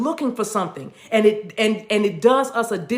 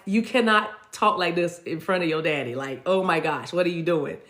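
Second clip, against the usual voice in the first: lightly voiced little girl, hushed warning; low, softened imitation of her inner child; little girl inside; 4 semitones lower, 3 dB quieter than usual. Inner child cautioning her about daddy, lightly imitated little girl. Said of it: "my little girl was like".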